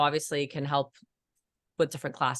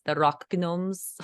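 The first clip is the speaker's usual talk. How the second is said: slow, playful mock-Russian accent; hint of Russian, hard G in "gnomes"; slight Russian accent; slower than usual. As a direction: draw it out with a light Russian accent. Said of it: "slight Ru-, Russian accents".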